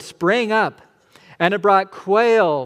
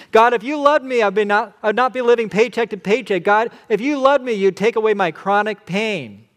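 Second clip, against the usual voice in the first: higher and louder, the complaint peaking; demanding prayer at full pitch; 6 semitones higher, 7 dB louder than usual. Retold or imitated. Complainer bargaining with God at the peak of the prayer, whiny and demanding. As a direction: push the entitled demand to the top. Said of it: "You often do the prayer".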